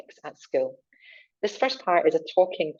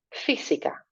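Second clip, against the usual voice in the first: whisper; 4 dB quieter than usual. Shown as a demonstration. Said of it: "echo take of a word".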